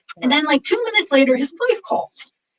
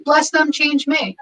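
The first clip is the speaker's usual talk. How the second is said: slow mantra; 2 semitones higher, slower than usual. Shown as a demonstration. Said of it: "But it's like".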